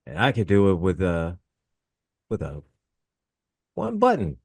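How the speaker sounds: put-on high Scottish accent, casual threat. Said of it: "your Scottish accent".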